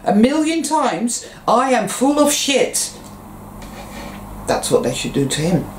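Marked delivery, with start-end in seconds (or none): 0.0-1.3 much higher, scolding schoolteacher voice; mock stern teacher. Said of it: "the teacher should say". 1.5-2.9 much higher, stern teacher voice on "I am full of shit"; mock teacher dictating. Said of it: "the teacher should say".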